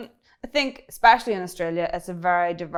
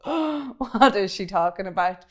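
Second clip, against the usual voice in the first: baffled listeners. Acted. Audience lost by her quick Irish speech, acted bafflement. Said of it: "people will be standing going".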